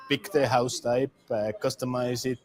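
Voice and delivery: usual speaking voice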